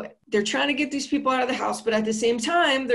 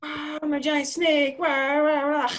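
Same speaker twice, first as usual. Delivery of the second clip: mock monster snake; 5 semitones higher than usual. Beetlejuice as giant snake.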